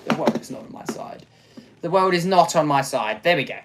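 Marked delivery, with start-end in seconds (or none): 0.1-1.3 soft, quick whisper of self-pity; whispered lament. Real, not acted. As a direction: breathe it out defeated. Repeated lament.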